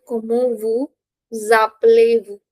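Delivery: "vous appelez" linked with a z, vous-zappelez; linking Z. Shown as a demonstration. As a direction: sound the s of "vous" as z opening "appelez". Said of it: "There is a linking sound between S and A".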